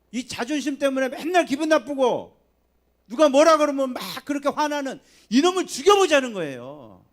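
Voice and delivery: loud, high, forceful preaching; fervent preaching. Acted. Pastor urging the congregation, forceful loud preaching. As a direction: hammer the call to kill the ego.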